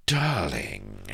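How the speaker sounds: drawn-out, acid-sweet endearment; sweet with venom underneath; acid honey. A narrator's reading. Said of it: "acid honey boiled from the darkness".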